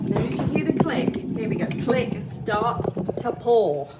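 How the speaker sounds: high, loud and bright-eyed, pointing at the click; excited demo. Shown as a demonstration. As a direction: announce the click like a big moment. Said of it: "part of the tutorial".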